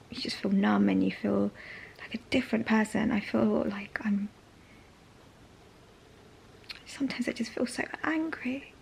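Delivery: near tears, barely voiced; tearful whisper. Real, not acted. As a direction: whisper through held-back tears. Emotional low moment on chemo.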